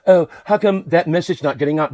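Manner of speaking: lightly put-on voice of people complaining; mock complainers. Quoting people who wonder about the message, mock complaint. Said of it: "People always go".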